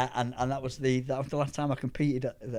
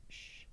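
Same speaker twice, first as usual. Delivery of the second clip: hushing sound; 20 dB quieter than usual. Retold or imitated. Imitates sudden hush before noise returns.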